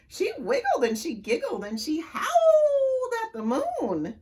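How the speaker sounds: storyteller cracking up mid-line; giggling read. A narrator's reading. Giggly reading of silly line.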